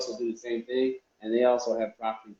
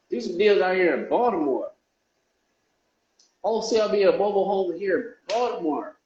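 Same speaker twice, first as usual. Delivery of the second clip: higher, louder pitch to sellers; excited call; 7 semitones higher, 4 dB louder than usual. Real, not acted. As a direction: call out to the city. Calling out to Baltimore sellers.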